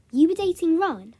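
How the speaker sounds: loud, high-pitched retold shock; shocked disbelief. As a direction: act out a startled, accusing question. Retold shocked question to friend.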